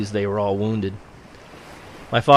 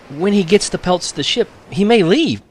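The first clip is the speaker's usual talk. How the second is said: tag; 9 semitones higher, 4 dB louder than usual. A narrator's reading. Worried girl fears the ship leaves.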